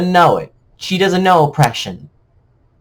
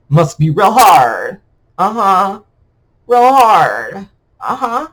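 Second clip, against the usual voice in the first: sarcastic sympathy; 5 dB louder than usual. Pretend.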